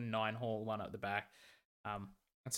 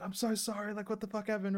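retold upset apology; 9 semitones higher than usual. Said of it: "She's crying".

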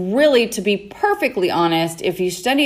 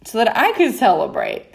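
laughing complaint. Retold or imitated. Brother's complaint through laughter.

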